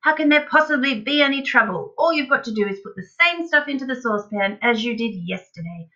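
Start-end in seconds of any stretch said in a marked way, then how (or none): 0.0-1.9 high, loud, incredulous question; excited protest. A narrator's reading. Father dismissing his son's worry, crying out. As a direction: scoff at the very idea. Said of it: "cried Mister Cranky".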